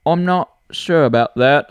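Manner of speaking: put-on light British-accented Siri reply; a touch of British Siri; mildly British robotic answer. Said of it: "I just did a British accent".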